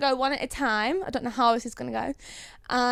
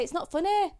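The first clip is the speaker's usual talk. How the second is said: Yorkshire accent; 5 semitones higher, 3 dB quieter than usual. Shown as a demonstration. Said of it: "if I lean into my accent".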